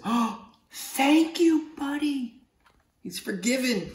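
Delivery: high, slow cartoon octopus voice. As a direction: squeak it out like a surprised little octopus.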